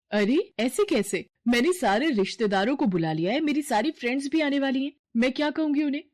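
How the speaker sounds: rising, fast exasperated protest on the phone; upset on phone. Acted. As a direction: argue with a let-down parlour lady. Argument on the phone. (फ़ोन पर झुंझलाई हुई तेज़ आवाज़)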